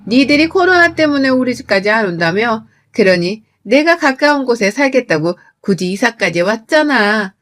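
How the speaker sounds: lightly acted huffy mother-in-law scolding; indignant, pushy rebuke; offended. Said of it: "기분이 나쁘고 빈정이 상하다며".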